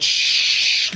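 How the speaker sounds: loud unvoiced "shh" like a spray can; imitated spray hiss. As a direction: mimic a burst of sprayed string. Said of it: "someone went".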